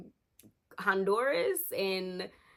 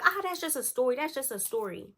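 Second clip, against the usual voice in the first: dismissive; 6 semitones higher than usual. Retold or imitated. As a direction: wave the worry away in a higher voice. Friend brushes off the warning.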